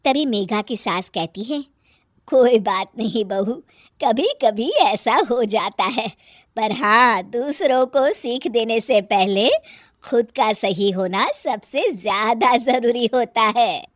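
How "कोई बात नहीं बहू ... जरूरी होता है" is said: lightly voiced older woman; measured moral advice to a daughter-in-law; a hint of a wise elder; mother-in-law, consoling then advising.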